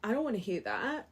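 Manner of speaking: loud fed-up "Ugh", then brushing it off; mock groan of refusal. Reader mimicking a triggered viewer, mock annoyed groan. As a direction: play a triggered viewer pushing the message away. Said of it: "You'd be like".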